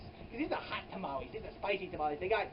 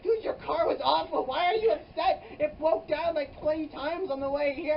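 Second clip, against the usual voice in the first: exasperated scolding; 7 semitones higher, 5 dB louder than usual. Retold or imitated. Scolding Chester over stolen car.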